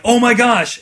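high, loud gasp of delight; imitated gleeful outburst; mock excitement. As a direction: blurt it out, acting thrilled. Acting player's excited reaction to the news.

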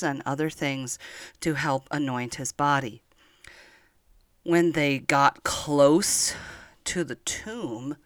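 put-on storytelling to small children, unhurried and tender; gentle story narration. Grandma telling Easter story to children, gentle storytelling. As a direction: read it like a grandma at bedtime.

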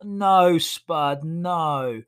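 sharp mock yell at the dog, rising then dropping; telling off the dog. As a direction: scold the dog with a quick firm No. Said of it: "And I was like".

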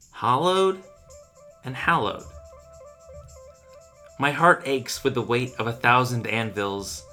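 solemn, mournful poem delivery; poem reading. Acted. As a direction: recite it like a grieving lover. Dramatic poem reading over music.

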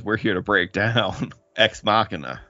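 low, lightly sultry voice; a mock seductive low voice; sexy voice. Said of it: "let me get my sexy voice on".

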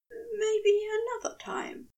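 high unvoiced whisper; whispered lie. A narrator's reading. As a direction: breathe the words out to dodge the question. Lying, hiding his fear.

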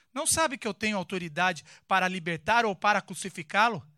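loud, commanding threat; the governor warns Jesus, loudly commanding; stern threat. Acted. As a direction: assert power over the prisoner. Pilatos threatening Jesus in the reading.

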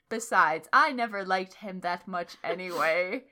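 low, emphatic dismissal; mean. A narrator's reading. Headmaster dismissing Draco, mean. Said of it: "he said meanly".

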